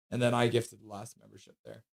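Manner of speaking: speaking through a hiccup. Real, not acted. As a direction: hiccup cutting the words. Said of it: "I hiccuped".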